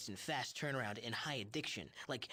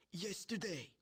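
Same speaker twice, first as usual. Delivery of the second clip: put-on wheezing old man; 7 semitones higher than usual. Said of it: "He goes".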